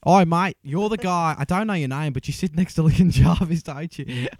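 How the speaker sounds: mock Australian bloke accosting a stranger; Australian accent. Australian stranger recognising a guest at the bar, Australian accent. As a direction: put on a matey Australian accent. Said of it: "I was in actual Australia".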